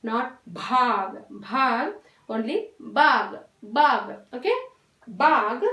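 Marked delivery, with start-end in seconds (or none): 0.0-1.1 भाग with breathy bh, the wrong way; wrong voiced bh. Shown as a demonstration. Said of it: "हमें pronunciation कैसे करना है, देखिए". 2.3-4.1 बाघ with plain b and breathy gh at the end, slowly; correct बाघ. Shown as a demonstration. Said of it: "हमें pronunciation कैसे करना है, देखिए".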